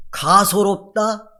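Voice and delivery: very slow, drawn-out mock disdain; scornful. Preacher voices God's derision of the wicked, slow and scornful. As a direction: imitate someone finding a foe laughable. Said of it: "하나님 비웃으신대요".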